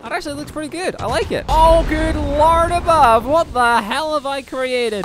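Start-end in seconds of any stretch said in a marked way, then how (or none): 1.5-5.0 high, slow, drawn-out gasp of disbelief; stunned exclamation. Real, not acted. Gamer reacting to a chaotic explosion, stunned and drawn out. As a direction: let the shock stretch every word.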